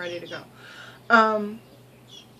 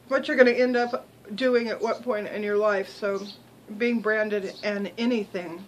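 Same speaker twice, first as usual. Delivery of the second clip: mouth full. Real, not acted. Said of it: "Sorry, I'm chewing and talking at the same time".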